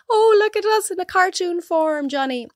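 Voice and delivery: high, squealing excitement over the design; gushing client. Retold or imitated. Bride shows her partner the cartoon invite, squealing high. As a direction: gush like a thrilled bride.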